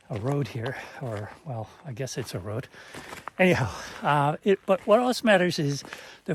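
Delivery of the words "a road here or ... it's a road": breathless while walking uphill; winded, short of air; out of breath. Real, not acted. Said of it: "sorry, I'm out of breath".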